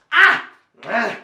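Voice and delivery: short loud "ah" of effort; effortful gasp. Pretend. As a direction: strain out quick "ah"s mid-juggle. Juggling attempt, failing to bite apple.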